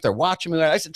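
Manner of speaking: ordinary delivery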